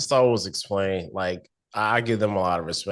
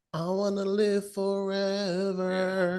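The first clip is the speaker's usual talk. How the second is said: Palpatine voice; 11 semitones higher, 4 dB quieter, slower than usual. Retold or imitated. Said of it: "Palpatine and him trying to".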